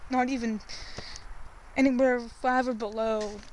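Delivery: shivering from the cold; cold and shivering while talking. Real, not acted. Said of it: "I'm sorry, I'm shivering".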